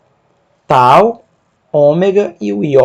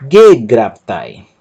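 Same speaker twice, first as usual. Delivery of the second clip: slow but joined, stress on first syllable; slowed demo; 4 semitones lower, 4 dB louder, much slower than usual. Shown as a demonstration. Teacher repeats the word more fluently, stressing GE. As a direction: say it whole, stressing GE. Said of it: "Perceba que a sílaba tônica".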